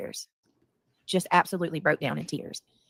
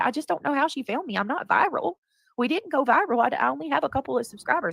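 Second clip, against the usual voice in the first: higher-pitched imitation of upset child; retold tearful child; 5 semitones higher than usual. Mother quoting her crying son, higher, lightly imitated upset. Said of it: "he starts crying again".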